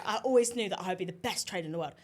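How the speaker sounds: boastful trader impression in London accent; Gary Stevens. Answering the co-host as the trader, mock London accent. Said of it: "best impression of Gary Stevens".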